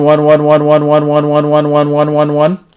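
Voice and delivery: loud, steady count into the mic; radio test count. Real, not acted. Reviewer counting into the handheld for a power test, loud and steady. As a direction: call the numbers out to key the transmitter.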